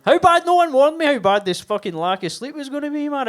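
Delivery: venting loudly at the crowd; exasperated rant. Real, not acted. Ranting about sleep loss.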